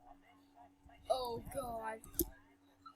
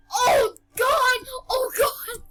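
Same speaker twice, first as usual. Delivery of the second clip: higher, louder startled cry; frightened outcry; 4 semitones higher, 3 dB louder than usual. Real, not acted. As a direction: cry out in alarm. Scared by Slenderman.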